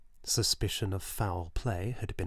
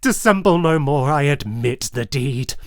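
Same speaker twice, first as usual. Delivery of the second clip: loud, high, desperate shouting; frantic screaming confession; 5 semitones higher, 11 dB louder than usual. Acted. Killer confessing to the officers, screaming. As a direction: scream the confession, all control gone. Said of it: "I shrieked".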